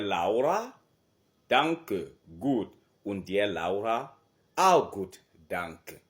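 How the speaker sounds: loud, clear German greeting dialogue; model dialogue. Shown as a demonstration. Teacher plays both speakers greeting Laura, loud and clear. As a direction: act out both sides slowly. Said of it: "Vous voyez comment ça se passe".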